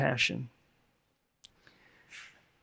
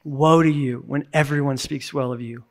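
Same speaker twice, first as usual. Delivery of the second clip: lower, softer, grieving woe; 4 semitones lower, 4 dB quieter than usual. Shown as a demonstration. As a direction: mourn the words, softly. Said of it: "an expression of grief".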